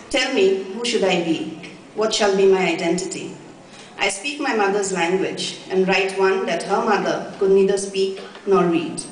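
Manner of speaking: deliberate recital, pausing after each phrase; understated, measured poetry reading; poem reading. Acted. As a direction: read the verse out to an audience. Reads her second poem.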